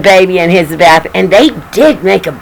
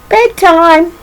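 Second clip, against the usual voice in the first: much higher, sung-out call; singsong bedtime call; 9 semitones higher than usual. Acted. Daddy calling the baby to bed, high singsong.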